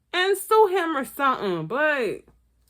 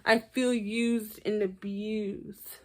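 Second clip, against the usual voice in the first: mock whiny John; 3 dB quieter, slower than usual. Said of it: "John was like".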